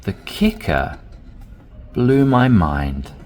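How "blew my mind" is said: blew punched louder and slower; stress on blew. Shown as a demonstration. Teacher showing inflection on blew my mind. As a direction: hit blew hard. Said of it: "In terms of the tone or the inflection".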